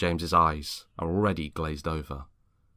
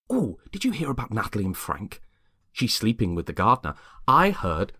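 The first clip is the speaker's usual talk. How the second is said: lightly raised, eager gossip voice; gossipy Lexi; 4 semitones higher, 3 dB louder than usual. Acted. Lexi telling James neighbourhood gossip, lightly eager. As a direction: lean in and dish the dirt.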